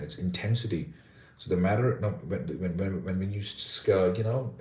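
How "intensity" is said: intensity stressed on TEN; stress on second syllable. Shown as a demonstration. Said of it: "stressed on the second syllable".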